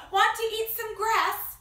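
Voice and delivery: high, loud cow's invitation; storybook cow. Acted. Cow invites the spider to eat grass, high cow voice. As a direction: pitch it up as an eager cow. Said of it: "said the cow".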